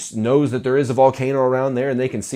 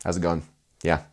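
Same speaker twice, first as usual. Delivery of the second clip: lacklustre greeting; 7 semitones lower, 3 dB quieter, faster than usual. Shown as a demonstration. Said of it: "most of you are selling it like this".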